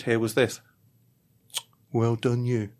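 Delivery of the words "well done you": dry sarcastic praise. Retold or imitated. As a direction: say it with scorn. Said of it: "It was so sarcastic".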